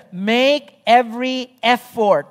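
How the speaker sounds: weight on each word of "Make every effort"; emphatic stress. Shown as a demonstration. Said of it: "the emphasis of Paul there".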